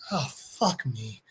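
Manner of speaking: low, quiet, drawn-out groaned words; acted-out sinking dread; resigned dismay. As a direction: mutter it slowly, utterly defeated. Hero's dismayed reply to reveal.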